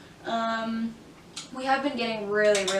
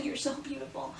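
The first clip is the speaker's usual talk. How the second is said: laughing swoon; 4 semitones higher, 6 dB quieter than usual. Retold or imitated. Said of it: "I'm like".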